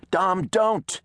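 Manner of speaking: high, urgent call. A narrator's reading. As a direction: cry out to stop him. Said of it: "call out to Reese".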